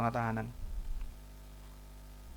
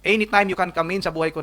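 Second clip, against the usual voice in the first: prayerful plea; 4 semitones higher than usual. Acted. Prays aloud opening life to God.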